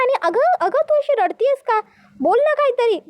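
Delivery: alarmed demanding questions. Acted. Second bride asks why they are shouting, alarmed. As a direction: press them for an explanation.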